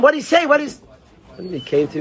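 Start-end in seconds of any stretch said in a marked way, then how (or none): 0.0-0.8 laughing question. Real, not acted. Amused rhetorical question to class.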